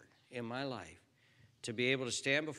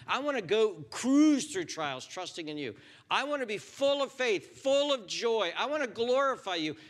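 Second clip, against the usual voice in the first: high, loud, impassioned plea; fervent prayer; 8 semitones higher, 7 dB louder than usual. Pretend. Preacher models the believer's prayer, impassioned and loud. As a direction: pray it with all your heart.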